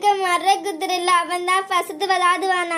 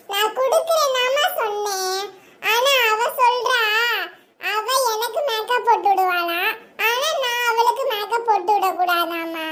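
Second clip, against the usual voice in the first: put-on complaining girl; 4 semitones higher than usual. Girl complaining to aunt about cousin, high and tattling. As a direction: tell on your cousin indignantly.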